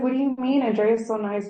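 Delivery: retold shocked protest; mock indignant. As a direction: push back in disbelief. Retelling indignant reply to coworker.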